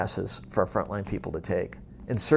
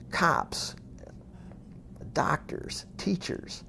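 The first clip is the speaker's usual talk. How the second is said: hushed list; 5 semitones higher, 10 dB quieter, much slower than usual. Real, not acted. Listing quietly, trailing off.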